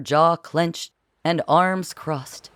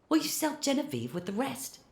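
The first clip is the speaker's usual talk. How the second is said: high screechy Philip, but quiet; a mild high screech of alarm; 9 semitones higher, 11 dB quieter than usual. A narrator's reading. Philip screeching to Francois behind the door, high. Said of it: "Philip pried".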